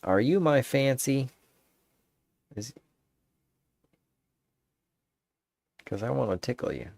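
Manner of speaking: half-joking flirt voice; cheesy pickup line. Pretend. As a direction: ham up the cheesy come-on. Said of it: "You could say".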